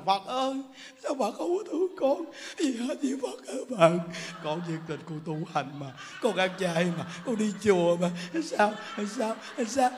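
whiny, half-laughing mock wail to Buddha; mock crying prayer. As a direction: parody a sobbing devotee, lightly. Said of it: "Khóc là".

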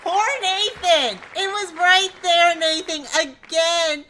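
real groan of disappointment for a friend; loud dismay. Real, not acted. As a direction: cry out at the near miss. Wheel narrowly misses for Nathan.

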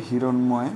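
হিরণময় said as "hiron-moy", with dental n and clear m. Shown as a demonstration. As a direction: sound n, then m in হিরণময়. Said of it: "উচ্চারণের ক্ষেত্রে দন্তন্য হবে". (হিরণময়-এ দন্ত্য ন ও ম স্পষ্ট)

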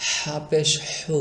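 slow হা and হু with rasping air from the throat; airy throat হা. Shown as a demonstration. Teacher models the throat letter, হা slow and airy. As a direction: draw out the breathy h of হু. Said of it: "এটা হবে এরকম".

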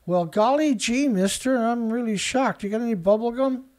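put-on golly-gee innocent kid voice; wholesome 1950s kid. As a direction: play a naive fifties boy, mock shocked. Mock naive reaction to headline.

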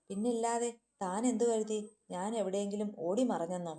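wife mocking him right back; scornful retort. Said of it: "അതേ പുച്ഛം തിരിച്ചു നൽകിക്കൊണ്ട്". (അതേ പുച്ഛത്തോടെ തിരിച്ചടി)

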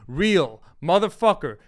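usual speaking voice

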